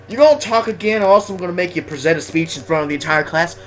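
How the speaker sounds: quick mock teacher's threat, starting high and loud; Mister Heel. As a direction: imitate a teacher rattling off a punishment. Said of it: "he'd always say something funny".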